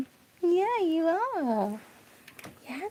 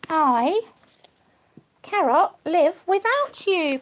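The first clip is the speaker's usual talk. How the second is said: read card tenderly; 5 dB louder, much slower than usual. Real, not acted. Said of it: "it says".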